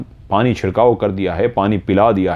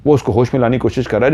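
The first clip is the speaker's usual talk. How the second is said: ordinary delivery, nothing marked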